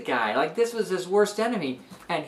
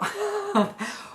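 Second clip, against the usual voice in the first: high laugh. Real, not acted. Teacher amused by the plot.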